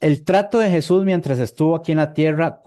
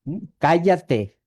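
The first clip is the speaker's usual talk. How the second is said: stern command; slower than usual. Retold or imitated. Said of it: "¿qué les decía?".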